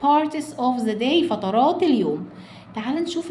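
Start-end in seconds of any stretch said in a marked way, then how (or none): 0.0-1.3 slow reading. Shown as a demonstration. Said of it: "slow model reading".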